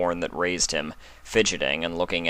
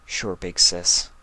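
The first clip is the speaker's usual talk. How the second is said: warm; slower than usual. Acted. Spike hugging, reassuring.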